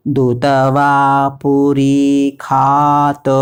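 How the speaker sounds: slow, syllable-by-syllable Sanskrit chant on a level pitch; mantra recitation. Shown as a demonstration. Teacher reciting the whole mantra for learners, measured chant. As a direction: stretch each long vowel evenly.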